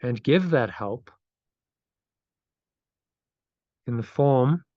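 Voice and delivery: meditative phrase-by-phrase reading, long pauses; slow affirmation reading. Real, not acted. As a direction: lead a repeat-after-me affirmation, unhurried. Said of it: "so I'll read it slowly".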